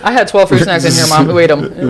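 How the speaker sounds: put-on laughing kid calling to mom; yelling across the room. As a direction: shout to Mom through a laugh. Kid yelling to mom about snacks.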